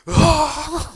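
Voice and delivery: loud, high wail of crying into a towel; mock sob burst. Son at his mother's funeral breaking down, loud mock wail. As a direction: let out one hammed-up crying howl.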